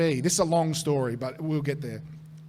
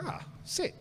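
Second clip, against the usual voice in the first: hushed, excited whisper; whispered delight; 11 semitones higher, 11 dB quieter than usual. Retold or imitated. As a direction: whisper it like you can't believe your luck. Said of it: "So we're like".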